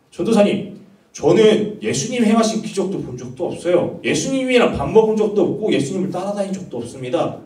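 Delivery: mock an insistent objection to the preacher; doubting student. Acting out a doubting youth's objection.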